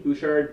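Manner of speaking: letter by letter "B O U C H A R D"; spelling it out. Real, not acted. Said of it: "he spelled".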